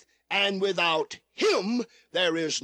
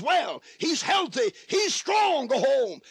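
building preacher shout; 7 semitones higher than usual. Real, not acted. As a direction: build each phrase higher until it bursts out.

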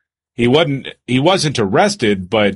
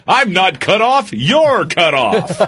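mock drunk; 8 semitones higher, slower than usual.

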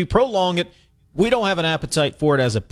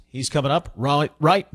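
Australian accent. Shown as a demonstration. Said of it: "Kind of going in an Australian accent there".

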